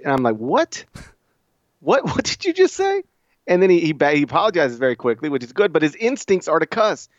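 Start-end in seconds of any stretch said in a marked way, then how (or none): 0.4-3.0 shocked dad. Retold or imitated. Dad reacting to son cussing.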